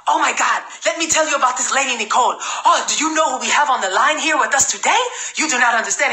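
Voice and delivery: lightly mimicked African accent, talking up the caller; Alassane Seck's African accent. Enthusiastic recruit introducing his sponsor on a call, imitated African accent. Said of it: "enthusiasm. He's like ... He's African, right?".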